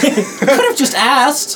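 put-on high-pitched, aggrieved child voice; protesting kid. Game master as the kid held by the feet, protesting kid. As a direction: whine back as an offended little boy.

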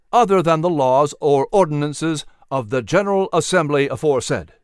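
firm, ringing formal reading; formal proclamation. Acted. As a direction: read out like a solemn decree. Reads resolution aloud.

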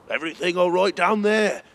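high-pitched call from a distance. A narrator's reading. Tower guard checking on Hesper below, calling out. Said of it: "called one of the guards from the tower".

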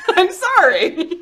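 high, loud, drawn-out apology; mock apology. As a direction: squeal a sorry, half laughing. Retells own reaction on seeing item.

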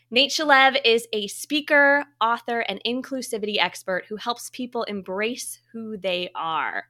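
polished host introduction with deliberate phrasing; guest bio read. Acted. Host introduces a trailblazing guest, formal bio read. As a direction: present the guest's credentials, item by item.

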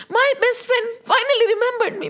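high-pitched, joyful exclamation; acted mild shout of joy; excited shouting. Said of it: "he kept shouting".

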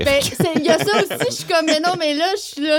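high, tipsy self-quote; giggly drunk. Retold or imitated. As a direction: play it a little pompette and loose. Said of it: "je suis un peu pompette".

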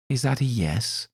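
high, sly demand; Crowley pressing. Acted. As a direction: needle him for an answer.

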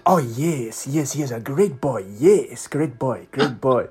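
put-on effusive Nigerian accent; rolling, delighted Nigerian-accented praise; imitated Nigerian fan. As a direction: repeat your approval in an imitated Nigerian accent. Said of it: "he's going on about the squad".

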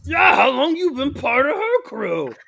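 high, loud demand; accusing character voice. Acted. Albert demanding his brother explain joining her crew, loud accusation. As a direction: throw the question at him, loudly.

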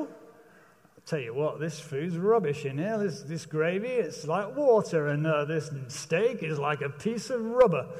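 lightly voiced muttered grumble over the food; a hint of a moaning Englishman complaining about dinner; grumbling diner. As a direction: grouse about the meal under your breath. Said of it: "we grumble".

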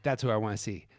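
loud, fierce vengeful rant; vengeful Windu voice. Retold or imitated. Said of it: "And I'm like".

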